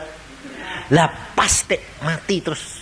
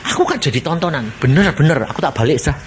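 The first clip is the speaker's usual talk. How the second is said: embarrassed sinner; 4 dB quieter than usual. Acted. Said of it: "Pada waktu dia lihat".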